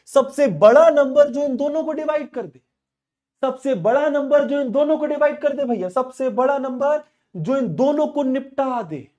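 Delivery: high and loud insistent repeat; emphatic repeat. Real, not acted. Teacher repeating HCF question forcefully to class. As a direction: hammer the question again.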